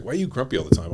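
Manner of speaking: a daughter calling her dad out, loud mock exasperation; mock exasperated daughter. Retold daughter complaining loudly.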